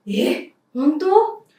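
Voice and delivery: surprised eh. Shown as a demonstration. Teacher in a skit hearing the cat ran away, surprised. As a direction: gasp out え？ in disbelief. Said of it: "音の高さと顔の表情に注目し".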